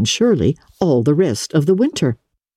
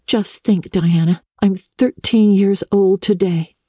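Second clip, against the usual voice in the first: hushed wonder; 5 semitones higher than usual. Acted. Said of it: "remarked Anne in an awed voice".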